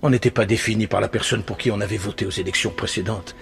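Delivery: subdued, solemn nostalgia; wistful reminiscence. Acted. Panelist recalling what the country once was, wistful reminiscence. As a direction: come down from the rant into sober remembrance.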